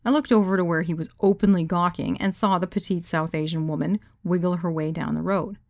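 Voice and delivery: usual speaking voice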